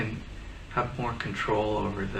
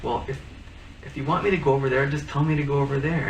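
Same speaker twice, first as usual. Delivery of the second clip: exasperated outburst; 4 semitones higher, 5 dB louder than usual. Retold or imitated. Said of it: "I'd feel like".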